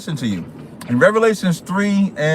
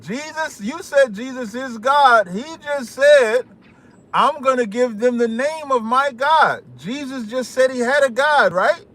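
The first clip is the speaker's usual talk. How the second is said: put-on African accent; 6 semitones higher than usual. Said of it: "when I do that African accent".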